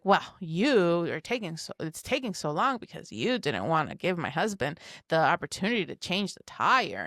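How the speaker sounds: lightly imitated indignant neighbor; mock indignation. Neighbor's wife blaming her over the tire, mildly mock indignant. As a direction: retell the blame with a touch of indignation. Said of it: "she didn't say with that indignation".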